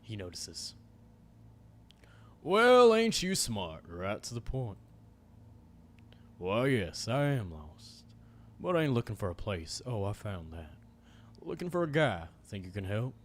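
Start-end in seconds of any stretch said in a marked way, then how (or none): 2.4-13.1 a hint of a drawling menacing cowboy; lightly voiced stranger, venom under the charm. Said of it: "my cowboy voice".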